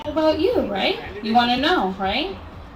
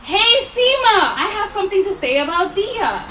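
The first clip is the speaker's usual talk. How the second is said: louder demo call for the guests to copy; 9 semitones higher, 4 dB louder than usual. Shown as a demonstration. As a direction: draw out "Seema" so the whole room hears. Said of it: "This is the time where you say".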